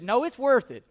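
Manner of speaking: hammed-up stubborn yelling; mock defiant shout. Mock quarrel over parade spot.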